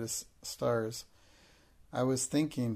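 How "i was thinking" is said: dignified, politely grand. Acted. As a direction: answer like a princess, poised. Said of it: "she answered grandly and politely".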